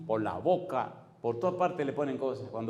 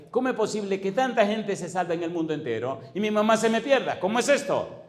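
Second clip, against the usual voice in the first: high, louder lament; son's anguished prayer for his mother; anguished plea; 6 semitones higher, 4 dB louder than usual. Retold or imitated. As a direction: cry out to God in anguish. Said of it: "Todo el tiempo nada más decía".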